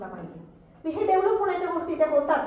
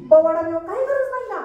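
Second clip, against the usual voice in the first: mocking scolding; 4 semitones higher, 5 dB louder than usual. Real, not acted. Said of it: "शाहिरी बिहिरी सुरू आहे की काय".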